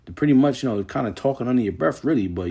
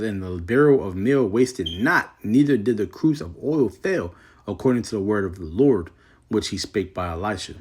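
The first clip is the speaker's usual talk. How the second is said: measured King James reading voice; scripture reading; 3 dB louder than usual. Acted. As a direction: read the verse with solemn weight. Reads scripture aloud.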